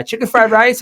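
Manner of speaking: high-pitched questioning call; hammed-up delivery driver's call; imitated delivery man.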